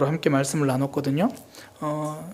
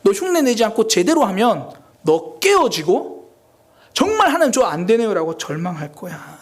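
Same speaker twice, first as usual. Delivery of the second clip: mounting warning; 3 semitones higher, 4 dB louder than usual. Retold or imitated. God's answer, rising to despairing cry.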